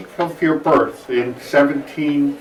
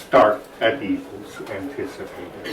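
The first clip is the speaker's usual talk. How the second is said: lamenting prince; 4 dB quieter than usual. Acted. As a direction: speak it as a weary prince. Quotes Rasselas's lament aloud.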